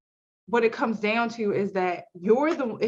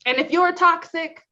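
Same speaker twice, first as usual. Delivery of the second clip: cartoon villain voice; 3 semitones higher, 3 dB louder than usual. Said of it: "You sound like an eighties cartoon villain".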